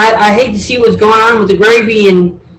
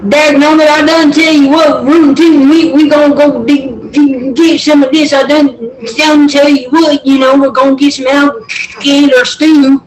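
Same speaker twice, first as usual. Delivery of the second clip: Southern accent; 5 semitones higher than usual. Shown as a demonstration. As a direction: put on an exaggerated country Southern accent. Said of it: "my southern accent when I tried doing it".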